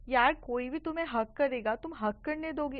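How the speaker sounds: mildly heated, accusing question; angry. Retold or imitated. Ananya confronts Chahat about the hug, mildly angry. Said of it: "तुम इतना गुस्से में क्यों हो".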